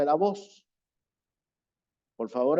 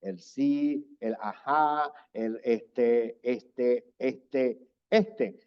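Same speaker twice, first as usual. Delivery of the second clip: demo filler words; 3 semitones lower, much slower than usual. Shown as a demonstration. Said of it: "así evitamos las muletillas".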